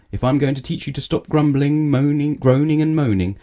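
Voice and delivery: a wizard losing patience; stern scolding. Acted. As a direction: scold him, building up.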